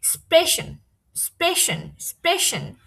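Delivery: "স্প্রেশন" repeated with s-p at the start; sp sound demo. Shown as a demonstration. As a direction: model "স্প্রেশন", opening on a plain sp. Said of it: "অ্যাসপের মতোই হবে".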